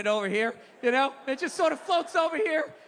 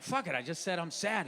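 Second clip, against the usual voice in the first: much softer, lower, almost under the breath; quiet confession; 8 semitones lower, 7 dB quieter than usual. Retold or imitated. Husband quietly admits to his wife he is sad, soft and low. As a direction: let it slip out low and small. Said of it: "I was like".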